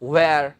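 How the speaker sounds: wear said with a clear w and an open vowel, like "wair"; correct pronunciation. Shown as a demonstration. Teacher models wear for Punjabi students, carefully. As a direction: say wear slowly and carefully, the right way. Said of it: "ਇਹਨੂੰ wear ਨਹੀਂ ਕਹਿਣਾ".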